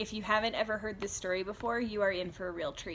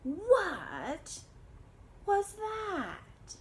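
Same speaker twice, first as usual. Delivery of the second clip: 1 startled question; 10 semitones higher, 3 dB quieter, much slower than usual. Acted. Kitten startled by mirror.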